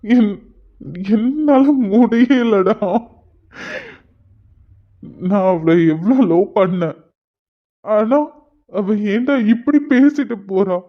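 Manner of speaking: heartbroken crying, words dragged out in places; tearful. Acted. Heartbroken lover confiding in his friend Hari, tearful. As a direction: break down while pleading with a friend. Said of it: "அழாதடா".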